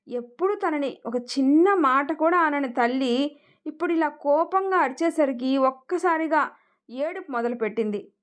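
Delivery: ordinary delivery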